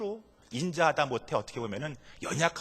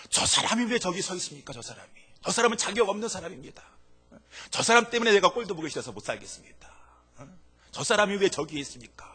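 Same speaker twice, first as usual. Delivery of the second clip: higher, resentful grumble at a rival; resentful complaint; 6 semitones higher, 3 dB louder than usual. Retold or imitated. A believer grumbling to God about someone undeserving, resentful. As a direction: spit out the grudge, raised. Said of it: "라고 생각하시는 분 계십니까".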